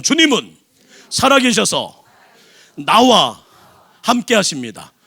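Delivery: each phrase punched loud with pauses between; 주님은, 살아계셔서, 나와, 함께 하십니다 called out one by one; call and response. Shown as a demonstration. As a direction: lead the congregation phrase by phrase, loudly. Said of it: "다시 한번".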